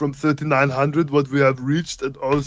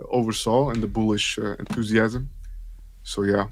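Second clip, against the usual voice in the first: put-on thick Germanic-accented action hero voice; action-star impression; 3 semitones lower than usual. Co-host talking crypto on stream, action-star impression.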